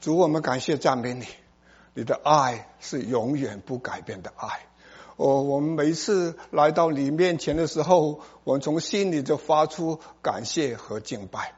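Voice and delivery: subdued, reverent prayer. Real, not acted. Preacher thanking the Lord after the reading, subdued prayer. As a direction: pray gently with heads bowed.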